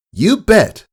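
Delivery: put-on high, bright young filly answering eagerly; a little pony bursting with excitement. A narrator's reading. Filly answering her dad at breakfast, high and eager.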